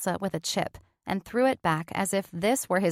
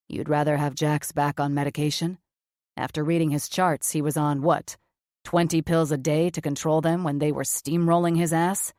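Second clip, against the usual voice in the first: gruff doctor, lower register; blunt surgeon, low and flat; lower male voice; 4 semitones lower than usual. Acted. Cameron's voice, lower.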